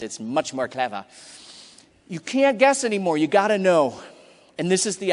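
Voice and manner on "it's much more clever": clever said in a mock British accent. Shown as a demonstration. Joking to the audience that British clever sounds cleverer, mock British accent. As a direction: give clever a posh British accent, lightly. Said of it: "if you say clever in a British accent".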